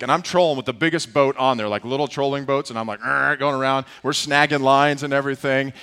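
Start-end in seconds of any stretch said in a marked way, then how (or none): 3.0-3.4 imitated motor growl. Imitates trolling around in the boat.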